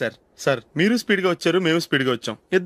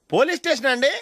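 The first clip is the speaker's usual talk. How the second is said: eager phone complaint; 7 semitones higher than usual. Acted. Reporting drunk driver to police.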